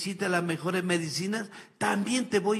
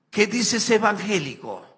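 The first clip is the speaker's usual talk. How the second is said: mocking evangelical preacher; 4 semitones higher, 5 dB louder than usual. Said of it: "Ahí dice evangélico".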